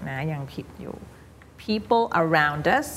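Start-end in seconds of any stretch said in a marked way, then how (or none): 1.7-2.9 very slow "People around us", D joined to "us"; linked D. Shown as a demonstration. Teacher modelling for a student, slow linked pronunciation. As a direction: stretch "People around us", linking round-dus. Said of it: "มันจะมี D นิดๆ ที่จะไปเชื่อมกับ us".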